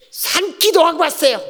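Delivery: a hint of a worked-up deacon; mock fierce answer. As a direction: fire it back with the veins standing out.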